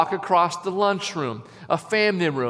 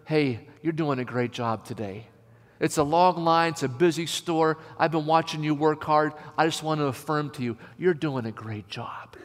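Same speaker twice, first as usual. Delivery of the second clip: gentle affirmation; 3 semitones lower, 4 dB quieter than usual. Pretend. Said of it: "you say to her".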